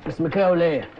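loud, low, threatening; menacing interrogation. Acted. Interrogator grilling the woman suspect, loud and menacing. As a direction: lean on her hard.

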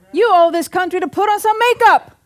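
laughing loud punchline. Real, not acted. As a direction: push the joke laughing. Joking climax, laughter.

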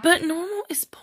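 playful whispered retort; whispering. Real, not acted. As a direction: whisper it like a little secret. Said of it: "Why are you whispering?".

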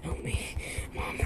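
breathless whispered plea to mom; desperate whisper. Retold or imitated. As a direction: whisper for help from the corner. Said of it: "I'm like".

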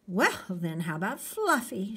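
mildly hopeful suggestion; hopeful offer. Acted. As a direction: offer it with a touch of hope. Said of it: "she offered hopefully".

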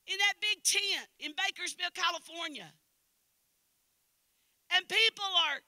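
high-pitched revival storytelling. Real, not acted.

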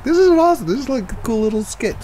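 high, excited squeal of approval; excited self-quote. Retold or imitated. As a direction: act out being thrilled with your idea. Retelling own delight at the microphone.

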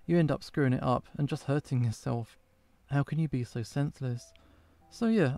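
earnest, pleading prayer to an absent friend; heartfelt prayer. Acted. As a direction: pour your heart out in prayer.

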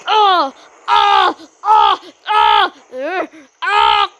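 mock angry screaming. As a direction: yell like a furious toy. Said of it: "why are you screaming like that".

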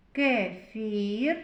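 "Кефір" with the "і" held long; sounding out I. Shown as a demonstration. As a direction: stretch the second vowel of "Кефір". («Кефір» з протяжним «і»)

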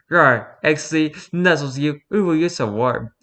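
cutesy furry roleplay voice; breathy cutesy giggly. Pretend. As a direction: coo it playfully. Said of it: "I have to do it".

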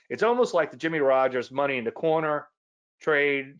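"almost" punched, as if in air quotes; stress on almost. Shown as a demonstration. Teacher marking "almost" as a hedge for viewers, emphatic. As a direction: hit "almost" like it sits in quotes. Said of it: "emphasize the word almost and do some air, air quotes".

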